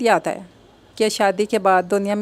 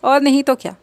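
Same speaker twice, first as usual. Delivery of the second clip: higher, louder, aggrieved reply; complaining; 4 semitones higher, 3 dB louder than usual. Acted. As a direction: grumble it like a hurt daughter. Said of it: "शिकायती अंदाज में बोली". (शिकायती अंदाज़, ऊँची और तेज़ आवाज़)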